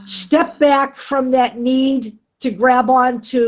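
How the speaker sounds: choppy, cutting out; bad connection. Real, not acted. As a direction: voice breaking up on a bad line. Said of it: "you're cutting out again".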